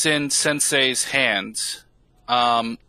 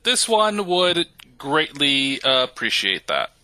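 slow, measured robot voice, stiffly formal; a polite construct defending itself, unhurried; robot character, deliberate. Acted.

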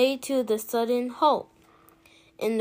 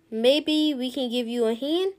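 Bog Brother voice; 2 semitones higher than usual. Acted. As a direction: offer help, backwoods style. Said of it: "said Lim".

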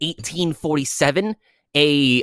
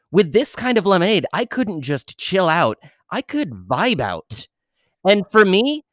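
measured, storytelling ad-read delivery; scripted commercial pitch with punched key words; sponsor ad read. Acted. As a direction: sell it like a podcast testimonial. Reads a sponsor ad.

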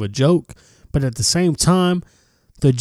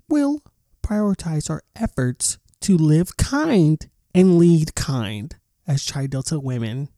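mock statement voice; 3 semitones higher, slower than usual. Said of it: "it take a lot to do that voice".

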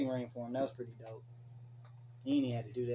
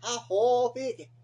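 higher, louder mock whoa, Vicky; 7 semitones higher, 4 dB louder, slower than usual. Mimicking the reality star for his friend, higher and louder. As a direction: ham up her whoa with a rising pull. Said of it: "That's how she talk".

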